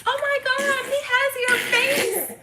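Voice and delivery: a high, lightly mocked gushing stranger, slowing on the end; mock gushing lady. Retelling a stranger at the grocery store, high gushing imitation. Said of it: "some lady was like".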